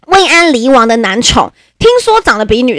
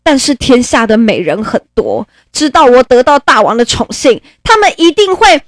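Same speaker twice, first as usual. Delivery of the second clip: mournful favourite; 7 semitones higher than usual. Acted. Favourite fears being discarded.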